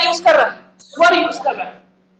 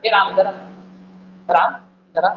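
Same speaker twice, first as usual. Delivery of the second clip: angry call; 7 semitones lower than usual. Shown as a demonstration. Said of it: "ऐसे बोलते हैं ना, गुस्सा बोलते हैं".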